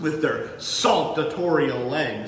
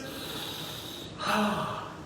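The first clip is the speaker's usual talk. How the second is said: soft, breathy sigh of air; breath demo; 4 semitones higher, 9 dB quieter than usual. Shown as a demonstration. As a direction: show a deep breath, then let it go softly. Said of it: "take a big, deep breath like this".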